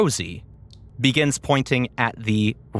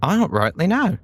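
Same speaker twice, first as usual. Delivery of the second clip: Gilly's voice; much faster than usual. Acted. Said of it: "the brain pauses and says".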